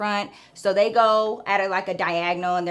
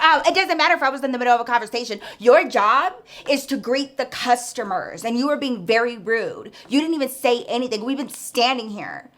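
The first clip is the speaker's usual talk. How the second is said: indignant customer scolding. Retold or imitated. An offended customer scolds the cashier, fast and huffy. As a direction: play the offended shopper laying into the cashier.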